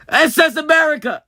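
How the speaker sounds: high, loud gasp into the name; excited cry. Real, not acted. Finding the ship, excited gasp and cry. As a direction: announce the ship with a gasp of joy. Excitedly naming ships found.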